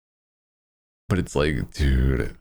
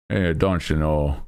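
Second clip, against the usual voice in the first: put-on Midwestern accent. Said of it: "same with the Mis-, Midwesterns".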